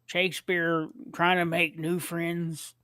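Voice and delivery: slow, simple Shakespeare voice; Sling Blade voice. Acted. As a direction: keep the dull, slow drawl. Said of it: "get it right".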